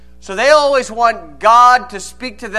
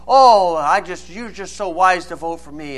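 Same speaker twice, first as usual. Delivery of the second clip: smooth politician flattery; 3 semitones lower than usual. Acted. Politician asking a sucker for his vote, smooth flattery. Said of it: "nice flowing words".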